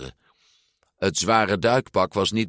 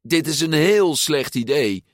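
urgent shout, high and loud; girl shouting to warn her friend off a bad idea; 8 semitones higher, 4 dB louder than usual. A narrator's reading. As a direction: yell a warning across the start line. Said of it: "schreeuwde Giulia".

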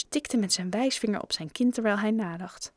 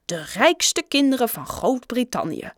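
emphatic read-out, slightly raised and higher; reading aloud; 4 semitones higher, 4 dB louder than usual. A narrator's reading. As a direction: read it out as a grand headline. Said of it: "las Raj hardop". (nadrukkelijk hardop voorlezen)

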